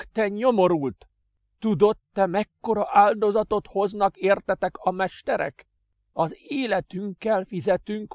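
high, loud, hateful tirade; furious master. Acted. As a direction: spit out each accusation. Adrian erupts in hatred.

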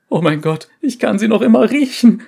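high, loud terrified cry; wild unhinged ranting. Acted. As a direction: scream it, losing your mind. Survivor breaks down screaming.

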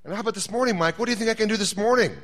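God gently ribbing Mike about last time; God teasing. Acted. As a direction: tease him like a knowing friend.

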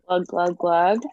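spoken "glug, glug, glug" of pouring wine; playful glugging noise. Pretend. Imitates wine pouring while trying it.

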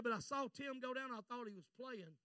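very soft retold testimony; subdued confiding. Pastor recalling his son going under, subdued confiding. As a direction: let the voice fall away as you remember. Pastor recounts son's drowning.

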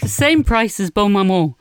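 puffed from the stairs; breathless after a quick run; out of breath. Real, not acted. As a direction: talk while catching your breath. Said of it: "Now you're out of breath".

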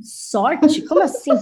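high, loud disbelieving "Sorte?"; incredulous. Retold or imitated. Retelling her shocked answer to her brother, high incredulous. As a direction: echo the word in disbelief.

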